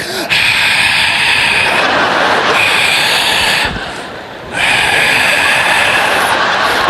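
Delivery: huge theatrical groaning sigh; long dramatic sigh. Retold or imitated. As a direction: sigh like the world's biggest favor. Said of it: "He's like".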